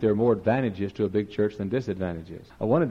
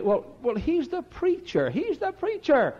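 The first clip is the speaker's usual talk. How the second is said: mock trembling; slower than usual. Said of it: "They say".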